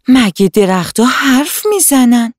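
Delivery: ask, half afraid, if trees can talk; surprised and scared girl. Acted. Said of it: "حنا متعجب و ترسون". (دختربچهٔ متعجب و کمی ترسیده)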